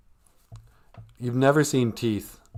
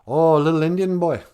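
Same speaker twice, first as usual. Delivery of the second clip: mocking redneck; 7 semitones higher, 8 dB louder than usual. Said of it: "redneck goes".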